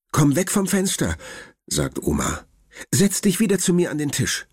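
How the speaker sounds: high, lightly voiced worried grandmother; grandma's voice. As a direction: speak up high as the fussing grandma. (hohe, besorgte Oma-Stimme)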